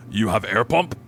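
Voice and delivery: lightly put-on Russian accent; bad Russian accent. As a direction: try a rough Russian accent. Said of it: "I don't have a good Russian accent either".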